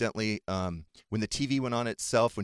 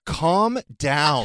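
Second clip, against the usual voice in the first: daughter's calm down; 8 semitones higher, 10 dB louder than usual. Retold or imitated. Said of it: "she's like".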